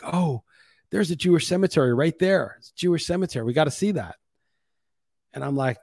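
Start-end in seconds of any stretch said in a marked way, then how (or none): 0.0-4.1 imitating eager wife. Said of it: "she's like".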